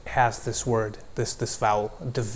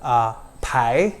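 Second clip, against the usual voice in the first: Australian pie. Shown as a demonstration. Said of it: "an Australian would say".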